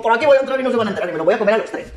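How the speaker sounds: fast, laughing wolf plotting; gleeful rushed wolf scheme; wolf plotting to sneak in; scheming wolf. Acted. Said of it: "y dijo".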